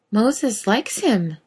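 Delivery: slow, high, awed; awestruck girl. Acted.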